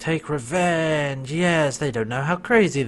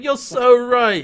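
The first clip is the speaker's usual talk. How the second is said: high, slow laughing agreement; 8 semitones higher, 6 dB louder, slower than usual. Retold or imitated.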